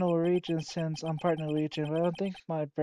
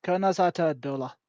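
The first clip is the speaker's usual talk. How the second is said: mock Irish phrase; 4 dB louder than usual. Shown as a demonstration. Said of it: "I'm speaking Irish".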